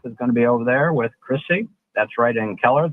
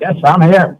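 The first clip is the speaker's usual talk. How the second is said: caller on a phone line; hollow, distant phone sound; cave echo; 5 semitones higher, 10 dB louder than usual. Real, not acted. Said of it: "sound like you're in a cave".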